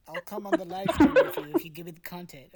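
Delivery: loud, laughing bargain; laughing plea. Real, not acted. Laughing as she bargains with her friend. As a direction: laugh it out as a pleading offer.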